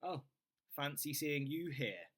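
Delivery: dry, teasing, ironic greeting; mock surprise at a gym regular; sarcastic. Shown as a demonstration. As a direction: joke that of course they're here. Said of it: "You could also say it sarcastically and say".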